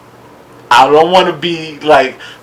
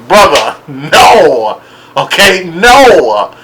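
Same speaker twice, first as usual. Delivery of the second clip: firm no; 3 dB louder, much slower than usual. Real, not acted. Slow firm rejection.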